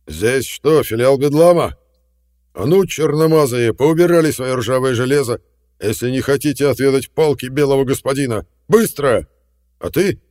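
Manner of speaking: bully them into dropping guns; furious threat. A narrator's reading. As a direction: colonel roaring threats at the crowd. Colonel threatening armed crowd.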